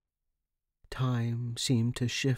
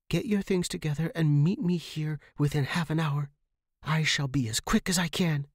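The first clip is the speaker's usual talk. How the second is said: higher, calm instructions; leading young friend; 6 semitones higher than usual. Acted. Megan instructs.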